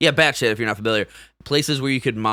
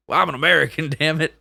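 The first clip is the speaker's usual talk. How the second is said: mock indignant patriot; 6 semitones higher, faster than usual. Mock patriotic outlaw quote.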